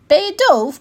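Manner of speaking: loud, high, irritated question; mildly grumbled. A narrator's reading. Unicorn fed up with a hard-of-hearing raccoon, loud irritation. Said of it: "bromde de neehoorn".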